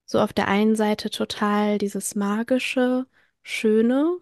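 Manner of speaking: trembling, emotional voice; shaky voice. Real, not acted. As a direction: voice wavering with held-back tears. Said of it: "ich krieg grad eine zittrige Stimme". (zittrige Stimme)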